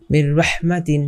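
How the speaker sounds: মির রহমাতিন joined on a doubled r, no hum; no ghunnah. Shown as a demonstration. Teacher shows class no ghunnah, মির রহমাতিন joined on r. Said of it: "কোনো গুন্না হবে না".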